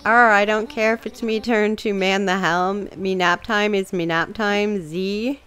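lightly voiced grumpy pirate; a hint of a sleepy old sea dog; drowsy pirate grumbling about nap time. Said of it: "pirate sounds, et cetera".

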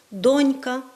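донька stressed on ДОНЬ; stress on first syllable. Shown as a demonstration. Teacher giving the correct form, stress on ДОНЬка. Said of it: "ми маємо наголос на першому складі".

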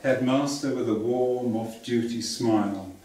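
measured poem recital with pauses between phrases; poem reading. Acted. Poet reads a childhood holiday poem to festival audience, measured recital. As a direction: read your poem slowly, phrase by phrase.

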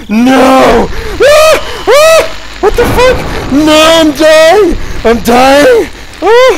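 high, loud terrified shrieks; panicked screaming. Real, not acted. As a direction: scream in real panic at the monster. Jump scare, screaming in panic.

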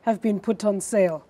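slow, loud, smirking read with a laugh; the mother mocks the father's taste with a slow smirk. Shown as a demonstration. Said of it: "I like this smirk".

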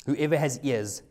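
measured, slowed Bible reading; preacher reading Matthew aloud; scripture reading. Acted. Reads Matthew thirteen aloud.

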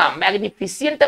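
"मैग्निफिसेंट" read as mag-ni-fi-si-ent; common misreading. Shown as a demonstration. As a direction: add an i so "मैग्निफिसेंट" ends in si-ent. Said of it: "आमतौर पर लोग इसे पढ़ते हैं". ("मैग्निफिसेंट" का गलत उच्चारण, फि-सि-एंट)

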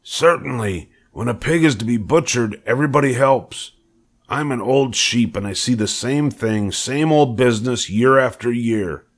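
lightly voiced worldly old sheep. A narrator's reading. Old sheep explains butchering to Wilbur, knowing character voice.

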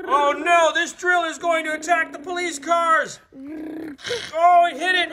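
playful alarmed narration; hammed-up alarm, rising; mock alarmed shout. Toy play narration alarm.

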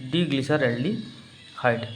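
drawn-out, very slow ডি গ্লিসারaldehyde; slow answer. Shown as a demonstration. Teacher answering own question for the class, very slow. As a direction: stretch the name out for the class. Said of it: "একে কী বললাম আমরা?".

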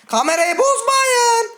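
high, slow, loud drawn-out plea. Real, not acted. Streamer begging the game not to break the cameras, high drawn-out wail.

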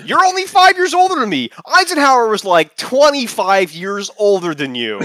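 fighting laughter to read it; laughing loudly. Acted. Reading Agnew's retort, laughing loudly.

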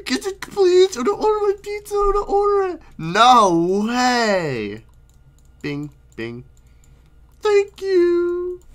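high, pleading customer voice; pizza customer voice. Acted. Customer begs the cook for pizza, high pleading voice.

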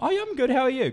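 high, singsong polite answer; retold friendly reply. Teller replying to chatty stranger, high friendly greeting.

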